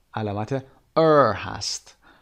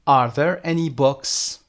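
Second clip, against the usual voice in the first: slow, a bit louder question; slow model question; 5 dB louder, much slower than usual. Shown as a demonstration. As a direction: model it slowly for the class. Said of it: "همینو به صورت جمع بپرسید". (آهسته و واضح)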